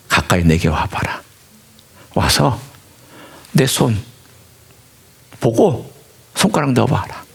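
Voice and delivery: tender invitation to come and touch; kind teaching. Retold or imitated. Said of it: "친절한 가르침이었습니다".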